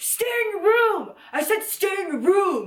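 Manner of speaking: put-on shouting. Retelling hearing a guy downstairs yell at his sister: retelling a yell. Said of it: "I just hear him yelling".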